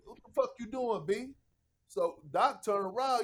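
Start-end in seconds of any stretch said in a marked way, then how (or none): 0.1-1.3 KG's catchphrase. Retold or imitated. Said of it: "That was his favorite".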